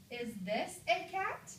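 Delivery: "Is this a cat" slow, climbing high on "cat"; question intonation. Shown as a demonstration. Teacher models a question mark, slow rising question. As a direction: ask "Is this a cat" slowly with a clear rise at the end. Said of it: "What type of punctuation mark do I use".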